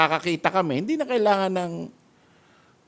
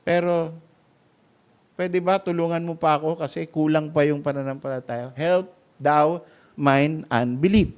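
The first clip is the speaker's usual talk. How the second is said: tearful plea. Retold or imitated. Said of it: "Sabi niya".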